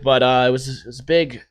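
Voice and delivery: ordinary delivery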